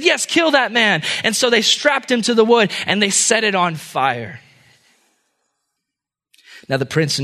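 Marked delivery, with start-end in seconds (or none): 0.0-1.0 high, drawn-out cry; excited mob cry. A narrator's reading. Excited people answer the accusers, high mob cry. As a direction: call for blood, high and slow. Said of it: "started to get excited".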